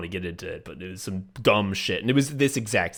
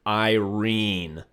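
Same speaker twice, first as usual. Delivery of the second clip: mock-annoyed, one-word correction; a touch of annoyance. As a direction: correct them with understated irritation. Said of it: "so fucking annoyed, just goes".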